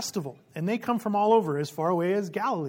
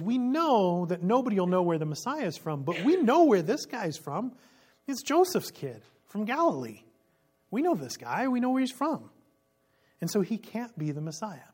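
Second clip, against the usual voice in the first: scoffing, sure of themselves; dismissive crowd; 4 semitones higher than usual. Acted. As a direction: brush him off as a local nobody.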